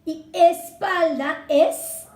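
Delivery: "Y espalda es" slow, "es" lifted with a rise; stressing the vowel. Shown as a demonstration. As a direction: stretch "Y espalda es" to point out the vowel. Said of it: "empieza con vocal".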